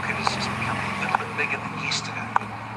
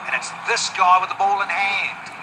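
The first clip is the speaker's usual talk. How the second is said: raised, loud play-by-play as the catch is taken; excited wicket call; 4 semitones higher, 5 dB louder than usual. Real, not acted. Commentator calling Fletcher's catch as the first wicket falls, excited. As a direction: build from the shot to a big call, then ease slightly.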